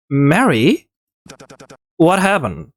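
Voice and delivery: startled, worried question; shocked. Acted. Reginald shocked at her state.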